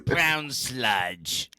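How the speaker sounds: put-on British food name; mock British accent. Host joking about British food, mock British accent. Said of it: "lost all of our British listeners".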